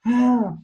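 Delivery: a bright, open "Ah" pitched high; open ah vowel. Shown as a demonstration. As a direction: sing "Ah" open and lifted. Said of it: "So whenever you want, you'll go".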